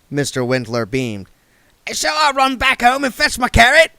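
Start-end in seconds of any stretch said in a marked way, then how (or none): 1.9-3.9 high, loud jolly busybody; cheerful voice. A narrator's reading. Mister Wintler greeting William with cheerful gusto. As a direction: boom it out cheerfully. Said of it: "he said".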